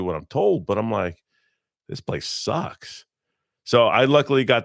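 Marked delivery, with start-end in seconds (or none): 1.9-3.0 slow breathy whisper of disgust; muttered whisper. Retold or imitated. Military guy muttering to himself about the job, slow whisper. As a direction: whisper "This place sucks" under your breath, slow. Quoted inner thought, muttered.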